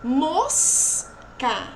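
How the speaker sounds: MOSCA with MOS held, then CA apart; syllable by syllable. Shown as a demonstration. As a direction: split MOSCA into two drawn-out syllables. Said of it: "mais alguns exemplos". (MOSCA em sílabas separadas)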